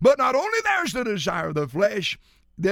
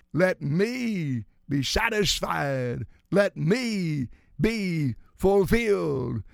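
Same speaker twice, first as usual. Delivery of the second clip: voice of the flesh; 3 semitones lower, much slower than usual. Acted. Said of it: "The flesh cries out".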